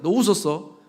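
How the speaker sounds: imagine an offended God, half-hearted scolding; mock flare of anger. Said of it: "버럭 화를 내면서".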